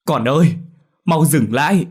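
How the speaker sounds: high, loud cry to stop. A narrator's reading. Mother shouts to stop her ghost daughter, high and loud. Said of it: "la lên".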